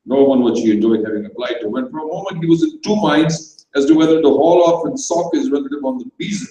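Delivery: usual speaking voice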